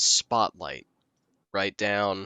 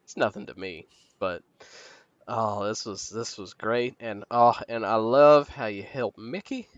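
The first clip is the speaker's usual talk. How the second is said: Maggie voice. Acted. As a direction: purr it like a fond hag. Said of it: "Maggie will be like".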